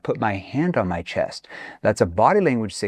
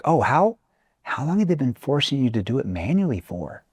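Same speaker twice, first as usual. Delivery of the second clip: concerned tone; 3 semitones higher than usual. Shown as a demonstration. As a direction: ask with real concern for them. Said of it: "See how my tone shifts there?".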